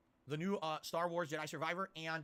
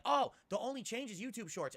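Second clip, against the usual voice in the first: sly corporate voice; 8 semitones higher, slower than usual. Retold or imitated. Mocking YouTube's sly pitch.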